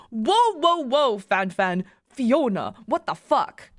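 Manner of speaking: put-on startled, in a shaky-at-best German accent; attempted German accent. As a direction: protest in an amateur German accent. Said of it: "I can't do a German accent".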